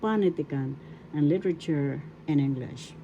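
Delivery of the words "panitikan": panitikan with a long stressed PA; teacher's model of panitikan, accent on PA; stress on first syllable. Shown as a demonstration. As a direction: lean on pa at the start of panitikan. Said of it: "That's how you say it".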